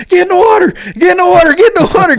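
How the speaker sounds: high, frantic repeated command; yelling. Retold or imitated. Angler ordering his buddy into the pond, yelling. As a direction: holler it urgently, far up in pitch. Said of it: "And I'm yelling at Jedediah".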